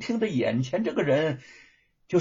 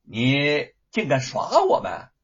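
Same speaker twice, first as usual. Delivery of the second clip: indignant outburst; 5 dB louder, slower than usual. Acted. Gatekeeper realizes he was fooled.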